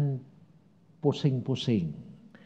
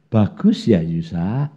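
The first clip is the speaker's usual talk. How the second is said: mock sarcasm; 5 semitones lower than usual. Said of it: "nadanya dia saya tahu. Kayak orang bahasa Jawa itu ngelulu".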